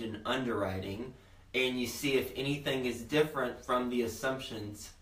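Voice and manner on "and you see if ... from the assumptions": numb slurring mouth; numb mouth, bitten tongue. Real, not acted. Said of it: "I think I just bit my tongue".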